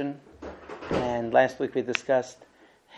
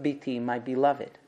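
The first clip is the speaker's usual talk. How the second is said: loving address; 5 dB quieter than usual. Retold or imitated. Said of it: "So Rav Yosef begins with".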